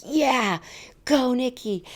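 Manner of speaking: lightly voiced gym trainer urging her on. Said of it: "he was like".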